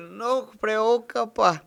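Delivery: put-on slow Argentine-accented Portuguese; mock Argentine teacher reassuring. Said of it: "isso é um sotaque argentino". (sotaque argentino)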